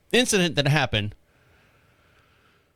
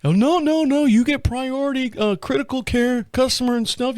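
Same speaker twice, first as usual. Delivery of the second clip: higher, eager reassuring; eager reassurance; 9 semitones higher than usual. Retold or imitated. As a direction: brush it off keenly. Mike reassuring on the phone.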